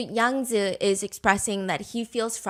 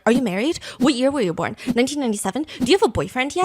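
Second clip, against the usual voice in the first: rapid-fire questions, one straight after another; mock grilling; much faster than usual. Host mimics the photographer quizzing her, grilling. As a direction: imitate a locked-in interrogator, no gaps. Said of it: "why is he grilling?".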